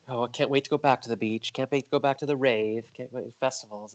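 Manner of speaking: mock eager chant; mock gushing. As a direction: gush sing-song in imitation, tailing off. Mimics gushing Instagram posts.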